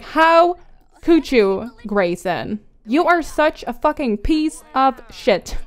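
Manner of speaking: mock fury, mildly played, pausing for emphasis; acted mad. Betrayed girlfriend tells off Grayson, acted anger. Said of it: "she is so mad right now".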